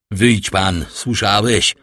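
mild stern shout at an intruder; shouted order. Acted. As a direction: shout him out of the room, mildly. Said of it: "krzyknął znowu Villefort".

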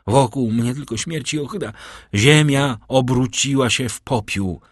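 put-on a young man crying out that all is lost; despairing outburst. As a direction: pour out his despair.

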